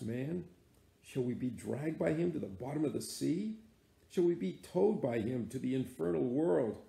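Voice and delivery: earnest first mate begging his captain to stop; a hint of a desperate mate crying out to his captain; Starbuck pleading. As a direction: plead with the old man, rising in alarm.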